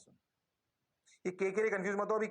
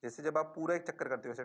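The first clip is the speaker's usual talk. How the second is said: ordinary delivery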